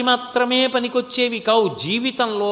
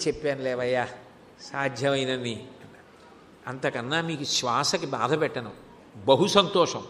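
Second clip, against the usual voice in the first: soft low farewell; 7 semitones lower, 6 dB quieter than usual. Acted. Shiva takes leave of tired saint.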